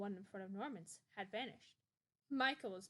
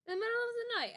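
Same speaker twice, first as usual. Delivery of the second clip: high, loud disbelieving question; incredulous mom; 9 dB louder, much faster than usual. A narrator's reading. Mom scoffing at bringing people home at night, incredulous. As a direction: scoff at the idea, pitched up. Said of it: "asked Mom".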